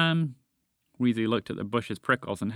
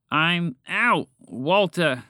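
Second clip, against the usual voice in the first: higher, slightly raised call; 5 semitones higher, 4 dB louder, much slower than usual. A narrator's reading. Stuck frog speaks from inside the bush, calling out. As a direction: call out your name.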